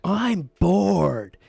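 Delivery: high, loud whiny yell; retold scream. Drunk friend screaming at the group that he's bored, loud whiny yell. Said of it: "he's just screaming".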